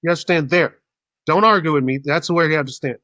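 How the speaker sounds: exasperated line-marshal voice; bossy orders. Retold or imitated. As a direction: retell someone firmly putting people in their place. Retold bossy orders at boarding.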